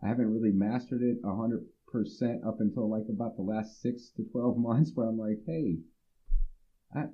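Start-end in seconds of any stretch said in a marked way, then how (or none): 5.5-7.0 raised calling out. Retold or imitated. Calling out a backhanded compliment.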